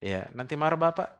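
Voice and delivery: put-on soft, hushed coaxing of a crying child; gently scare the child quiet with a mention of father; mother's soft warning; mother hushing child. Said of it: "Tapi ditakut-takuti saja".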